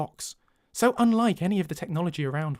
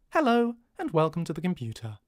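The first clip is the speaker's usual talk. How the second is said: computer voice. Shown as a demonstration. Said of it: "talks a lot like this".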